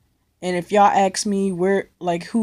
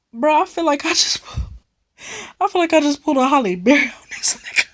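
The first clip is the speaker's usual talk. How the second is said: higher, fast and breathless; hyped up; 6 semitones higher, faster than usual. Retold or imitated. Bragging to friends about escaping, higher and fast. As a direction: rattle it off all wound up.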